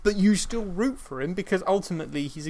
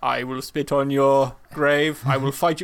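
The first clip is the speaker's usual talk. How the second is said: villain threat; 3 semitones lower, 4 dB louder than usual. Retold or imitated. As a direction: growl the threat like a sworn enemy. Acting a furious villain's threat.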